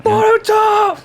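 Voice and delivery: high, yelped name; sudden high yelp of a name; sudden call-out. Real, not acted. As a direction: blurt the name out high and sharp.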